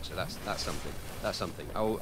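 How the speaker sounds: ordinary delivery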